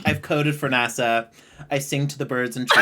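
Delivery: mock Ben as Snow White. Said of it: "He's like".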